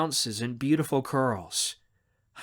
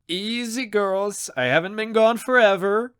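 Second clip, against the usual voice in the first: put-on high, hearty protest to excited girls; good-natured and loud, pitched up; playfully calming them down; amused greeting; 8 semitones higher, 6 dB louder than usual. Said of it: "he laughs as he embraces them".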